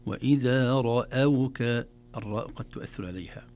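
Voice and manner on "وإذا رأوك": وإذا رأوك recited slowly with thin hamza; light hamza. Shown as a demonstration. Teacher repeating the correct reading, hamza thin. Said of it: "ترقيق الهمزة".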